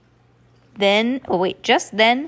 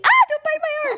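very high squeal with laughter; real playful yelp; 4 dB louder than usual. Real, not acted. Reader to child biting the arm, real playful yelp.

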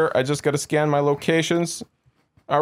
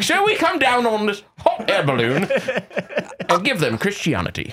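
put-on character voice; 3 semitones higher than usual. RPG character voice continues.

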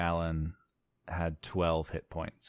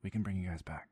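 soft hushed aside; stealthy quiet voice; 6 dB quieter than usual. Acted. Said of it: "a voice that's trying to be stealthy".

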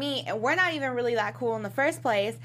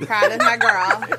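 proud cheer; 9 dB louder, slower than usual. Real, not acted. Praising Portia's restraint.

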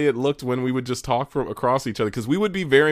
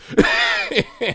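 shrieking laugh; 4 dB louder than usual. Real, not acted. Exasperated about dad.

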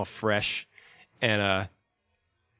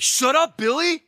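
much higher, louder mortified yelp; embarrassed squeal; 7 dB louder, slower than usual. Retold or imitated. Drunk fan squeals at Billy, high and embarrassed. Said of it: "so embarrassed".

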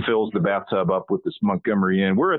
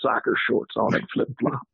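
put-on high, twangy good-old-boy cowboy; cowboy character voice; 7 semitones higher than usual.

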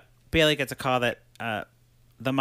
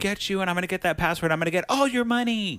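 high, rising mock menace; mock villain threat; 7 semitones higher, faster than usual. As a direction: play a threatening villain, pitch climbing to the end. Acted villain's threat in retelling.

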